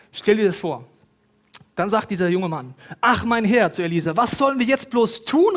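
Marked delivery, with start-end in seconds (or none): 3.0-3.7 higher, louder cry of despair. Acted. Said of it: "Vollkommene Verzweiflung". 4.2-5.6 high, loud despairing plea. Acted. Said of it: "Vollkommene Verzweiflung".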